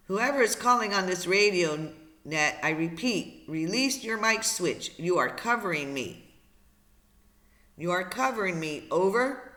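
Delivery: lightly voiced, firm radio operator. Operator tells caller to release mic switch, firm radio call.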